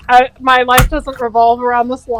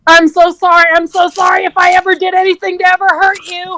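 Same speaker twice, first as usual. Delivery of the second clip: mock Mufasa apology; 6 semitones higher than usual. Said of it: "you know".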